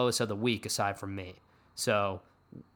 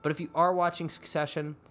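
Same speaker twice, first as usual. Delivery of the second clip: usual speaking voice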